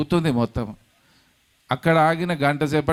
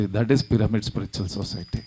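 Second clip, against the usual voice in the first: slow proclamation; 4 semitones lower, much slower than usual. Real, not acted. Proclaiming the society's name.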